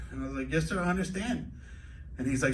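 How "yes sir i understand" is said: higher, lightly put-on white American accent; white speak. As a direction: deferential mock white speak. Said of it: "go into white speak mode".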